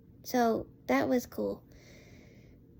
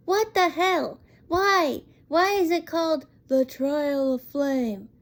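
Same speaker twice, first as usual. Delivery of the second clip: incredulous. Real, not acted. Baffled outburst at a name change.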